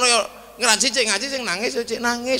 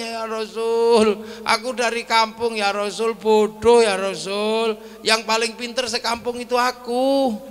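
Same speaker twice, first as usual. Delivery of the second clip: tearful plea. Acted. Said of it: "orang ini nangis".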